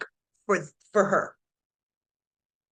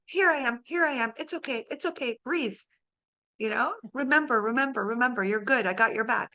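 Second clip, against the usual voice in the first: soothing. Retold or imitated. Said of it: "needs to be like".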